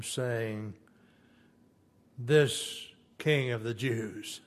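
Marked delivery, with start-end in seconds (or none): 2.2-4.4 slow, drawn-out scornful jeer; mocking sneer. Roman soldiers mocking Jesus, slow scornful jeer. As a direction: sneer the title, dragging it out. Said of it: "mocked him".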